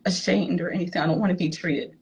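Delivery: real tears rising while she retells it; choked up, holding back crying; teary. Real, not acted. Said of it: "sorry, I got crybaby".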